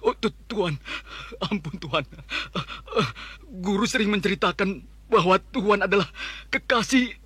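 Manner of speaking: trembling plea for mercy; begging in fear. Acted. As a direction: grovel and beg, terrified.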